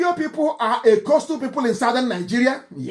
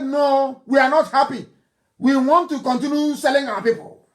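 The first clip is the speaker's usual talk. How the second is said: a raised, mock-defiant voice of the slave traders; mocking quote; 5 semitones higher than usual. The preacher mocking the Pepper family's excuse, mock-defiant and raised. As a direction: lift the pitch and play them as smug and stubborn.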